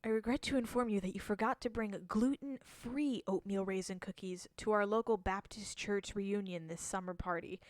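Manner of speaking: a lightly done emergency broadcast announcer; emergency alert. Pretend. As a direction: read it like a dry alert bulletin. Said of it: "My fake E A S alert voice".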